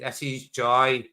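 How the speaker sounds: slow, drawn-out "This is joy"; slowed, savoring. Shown as a demonstration. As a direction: stretch each word of "This is joy".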